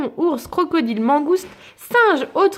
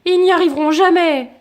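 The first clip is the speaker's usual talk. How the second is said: louder, higher jeering call; scoffing onlooker; 5 semitones higher, 6 dB louder than usual. Acted. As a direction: call out like a doubtful bystander. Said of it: "lance un badaud".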